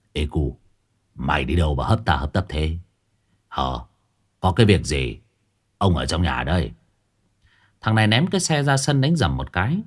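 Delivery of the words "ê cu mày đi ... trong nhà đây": 1 haughty chin-up. A narrator's reading. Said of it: "thầy Phọt hất hàm hỏi".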